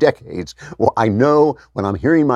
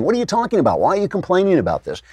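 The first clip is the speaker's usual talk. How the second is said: much higher, fast exasperated disbelief; incredulous retort; 8 semitones higher, faster than usual. Retold or imitated. Husband retelling his reaction to Mia Love, high incredulous retort. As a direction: fire back in baffled disbelief, quick and high. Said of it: "I'm listening to her and I'm saying".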